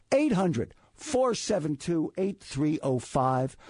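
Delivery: slow and clear, each digit weighted; slow, emphatic repeat. Shown as a demonstration. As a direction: spell the number out slowly. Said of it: "Call Pat Vitucci anytime at".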